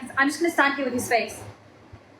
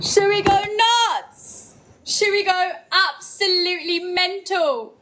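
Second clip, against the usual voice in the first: slow, stretched hype, pitched up; going nuts; 4 semitones higher, slower than usual. Real, not acted. Streamer teasing chat about going crazy, drawn-out hype. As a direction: drag out the words to tease the chat. Hyping up late-night live chat.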